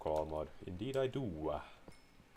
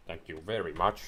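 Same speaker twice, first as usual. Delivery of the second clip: sarcastic thanks; 6 dB louder than usual. Acted. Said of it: "that thank you was completely sarcastic".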